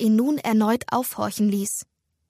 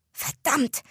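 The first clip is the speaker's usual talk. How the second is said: unterdrücktes Fluchen; 4 semitones higher than usual. A narrator's reading. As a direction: curse under pressure without shouting. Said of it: "fluchte eine dunkle Stimme". (gedämpft fluchen)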